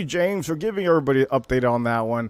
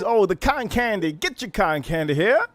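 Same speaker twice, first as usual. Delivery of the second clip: street vendor calling; 6 semitones higher than usual. Retold or imitated. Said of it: "That's what they would say".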